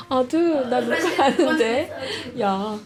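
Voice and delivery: half-amused parental complaint; mild scolding of son. Real, not acted. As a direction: plead lightly with your son mid-recording. Tells laughing son she is recording.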